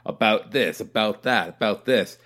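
mock Canadian "about this, about that"; lightly put-on Canadian "about" with "about" said as a clipped "aboot"; Canadian accent mimicked, "about" said like "aboot"; imitating Canadian about. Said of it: "He said".

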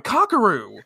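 high mock cry of alarm; acted alarmed cry. Luna calling to afflicted Kakeru, mock alarm. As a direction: call the name out in dramatized worry.

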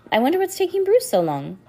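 high-pitched voicing of a puzzled girl; wondering girl. A narrator's reading. Girl wondering why her friend is so late, puzzled and high. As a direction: wonder aloud, pitched well up.

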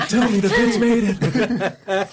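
laughing. Real, not acted. Joking about the bits landing.

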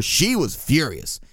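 ordinary talk

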